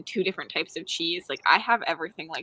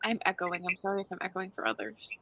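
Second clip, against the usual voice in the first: echo; 9 dB quieter than usual. Real, not acted. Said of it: "you're echoing a little bit".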